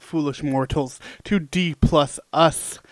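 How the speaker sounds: slow, theatrical spooky welcome; drawn-out haunted ride announcer; ghost host voice. Pretend. Haunted Mansion host parody opening.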